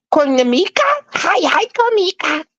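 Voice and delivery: high-pitched, unsure mock greeting; white person mispronouncing. Greeting a woman by mangled name, mock white-person voice. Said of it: "like a white person trying to pronounce your name".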